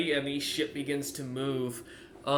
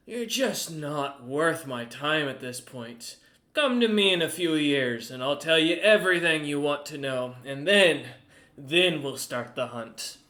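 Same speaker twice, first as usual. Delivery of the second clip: Goose the merchant; 5 dB louder than usual. Acted. Merchant captain lecturing the party, loud and haughty. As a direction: lord it over them as the proud merchant.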